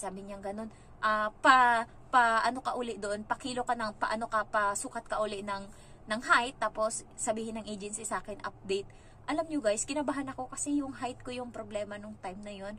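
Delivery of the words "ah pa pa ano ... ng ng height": loud, offhand string of instructions; bossy interviewer. Retold or imitated. Hong Kong agency interviewer telling the applicant what to redo, loud and offhand. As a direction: rattle off the to-do list like a busy official.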